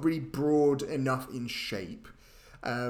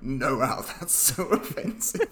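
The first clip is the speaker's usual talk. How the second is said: laughing imitation; 2 semitones lower, slower than usual. Laughingly quoting co-host's old objection.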